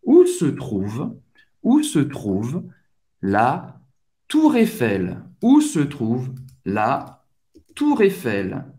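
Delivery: où se trouve la Tour Eiffel, slow with clear stress; slow teacher demo; slow model phrase. Shown as a demonstration. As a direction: build the phrase piece by piece. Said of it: "onde posso achar".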